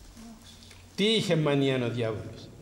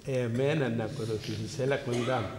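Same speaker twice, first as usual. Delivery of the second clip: devil's call; 2 semitones lower, 3 dB quieter than usual. Retold or imitated. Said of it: "φωνάζει αυτός".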